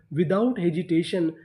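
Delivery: very slow, word by word; teacher reading the full sentence at dictation pace; slow reading aloud. Shown as a demonstration. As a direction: read it out slowly for the class. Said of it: "तो हमारा पूरा sentence क्या बना?".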